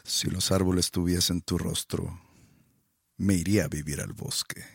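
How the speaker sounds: declaiming like a poem; recited poem. Acted. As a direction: recite it like a poet. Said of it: "No estás recitando una poema".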